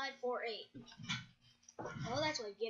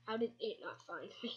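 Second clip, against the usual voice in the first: ordinary talk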